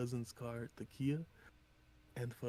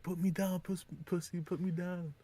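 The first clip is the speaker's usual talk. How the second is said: higher, louder mocking quote of an opponent; raised-pitch quoted protest; retold angry demand; 7 semitones higher, 4 dB louder than usual. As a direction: voice the pinned man's protest, pitched up. Retold fight, trapped man protests.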